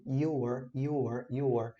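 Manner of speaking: teacher speeding up the "your" drill. Shown as a demonstration. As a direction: shorten "your" toward natural speed. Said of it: "reduzir o tempo da pronúncia".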